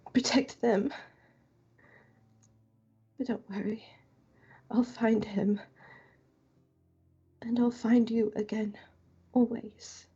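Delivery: halting vow, lightly whispered; a touch of whisper, pausing between phrases; soft near-whisper. Acted. Kaushik promising the dead friend at the urn, lightly whispered. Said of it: "she's just gonna kinda whisper".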